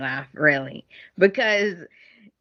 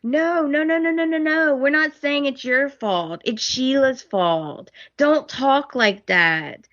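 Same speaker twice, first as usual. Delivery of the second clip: much higher rapid no no no; reassuring rush; 7 semitones higher than usual. Retold or imitated. Family reassuring Thomas, higher mock protest. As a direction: hurry to reassure him. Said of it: "they're like".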